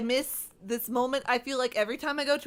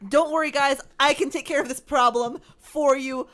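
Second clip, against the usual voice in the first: greedy excitement; 3 semitones higher, 5 dB louder, faster than usual. Retold or imitated. To the shop staff, eager and greedy. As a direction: gush over the free gelato. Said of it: "I was like".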